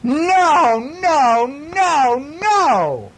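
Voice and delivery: high, loud playful no no no; a high mock-scolding cry to the puppy; mock alarm. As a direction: pretend horror at the puppy. Dog chewing Daddy's shoe.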